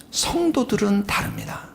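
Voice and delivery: hushed whisper. Real, not acted. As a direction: drop to a whisper for emphasis. 설교 중 속삭임. (속삭이듯 조용히)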